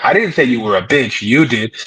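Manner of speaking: normal talking voice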